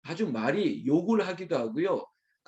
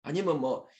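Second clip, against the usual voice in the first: usual speaking voice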